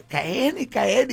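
high, loud and slow; slow announcer slogan. Shown as a demonstration. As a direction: stretch out the slogan like a jingle. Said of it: "ad slogan repeated". (eslogan lento y fuerte de locutor)

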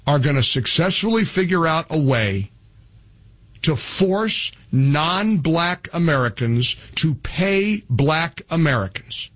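normal talking voice

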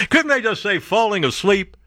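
high, scoffing at the fancy word; mocking exasperation. Real, not acted. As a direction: poke fun at the jargon.

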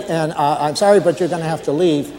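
hesitant, stammering night watchman; lightly voiced, deferential rookie guard; nervous new guard. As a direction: stumble politely through an awkward report to the boss. Plays a new guard phoning his boss.

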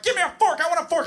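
put-on high-pitched toddler whine-yell; screaming three-year-old. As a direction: demand it like a child mid-tantrum. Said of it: "I'm being screamed at point blank".

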